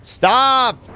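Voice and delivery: high loud shout. Real, not acted. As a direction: yell stop at the screen. Shouting at game.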